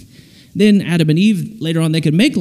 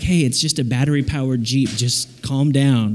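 lower, lightly voiced calming parent; 5 semitones lower, 4 dB quieter than usual. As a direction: talk an overexcited kid down, low and easy. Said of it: "your parents remind you".

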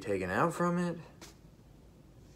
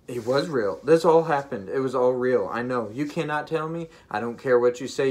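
insistent; 2 semitones higher, 4 dB louder than usual. Real, not acted. Telling doubters it all really happened, insistent. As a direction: push back firmly, with real conviction. Defends vision against doubters.

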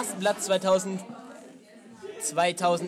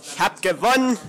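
shrieking jackpot winner; 6 semitones higher than usual. Real, not acted. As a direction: crow over the win. Gloating over winning the quiz.

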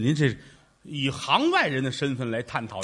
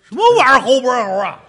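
indignant surprise; 7 semitones higher, 8 dB louder, faster than usual. Acted. Indignant disbelief at partner.

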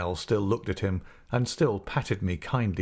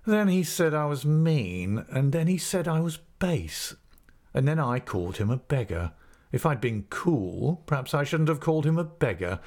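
bold schoolboy; 6 semitones higher than usual. Acted. Steerforth defends himself boldly.

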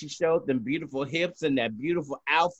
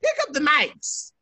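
high-pitched producer's call; 8 semitones higher than usual. Retold or imitated. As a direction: call out an urgent cue to the performers. Voicing a producer's call to performers.

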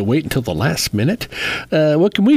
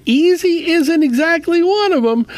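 wry; 13 semitones higher than usual. Acted. Wry complaint about tax season.

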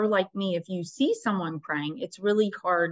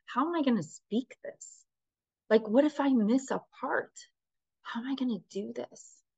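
higher-pitched, mildly worried questions; scared; 5 semitones higher than usual. Retold or imitated. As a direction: replay your anxious self-questioning, pitch lifting. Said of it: "then I got scared".

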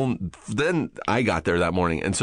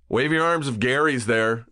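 helicopter crew; 6 semitones higher than usual. Retold or imitated. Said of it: "the guys in the helicopter didn't say".

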